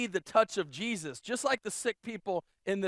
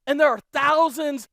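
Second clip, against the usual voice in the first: louder, higher, a touch of panic; anxious disciples; 3 semitones higher, 5 dB louder than usual. Retold or imitated. Disciples pleading with Jesus about too little food, worried. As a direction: worry about the tiny food supply. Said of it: "Like, like".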